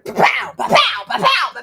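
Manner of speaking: high, punchy pow pow pow; pow sound effects. Pretend. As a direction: fire off each pow like doors bursting open. Doors opening one after another.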